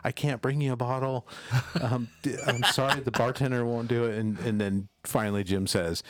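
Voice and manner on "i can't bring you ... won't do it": raised timid apology with a nervous laugh; hint of a nervous waitress. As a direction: apologize again, a bit scared.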